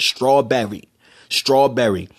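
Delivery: STRAWBERRY with a careful clear "berry"; mock proper. Mocking the cousin's proper speech, careful "straw-berry" STRAWBERRY. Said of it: "you sound like a little white kid".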